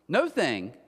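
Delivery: "No thing" with each word stressed on its own; split into two words. Shown as a demonstration. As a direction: deliberately separate "No" from "thing". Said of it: "I spelled that wrong, though".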